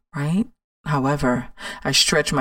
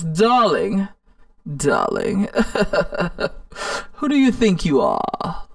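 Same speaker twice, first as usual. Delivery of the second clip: mock glamorous diva, a breathy laugh mid-line; Diane Carroll voice; 2 semitones higher than usual. Inner critic mocks her, a hammed-up diva with a laugh. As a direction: sneer it down your nose like a haughty star. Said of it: "she has that Diane Carroll voice".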